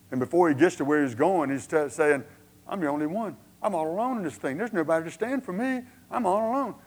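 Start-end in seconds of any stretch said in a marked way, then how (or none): 2.7-6.8 mock lament, climbing in pitch; self-pitying lament. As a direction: complain all alone, rising as you go. Acting Elijah's lonely complaint.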